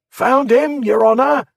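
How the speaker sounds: high, loud crowd cry; shout. A narrator's reading. A man in the mob shouting to the crowd, loud high cry. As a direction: yell it out to the whole street. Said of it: "somebody shouted".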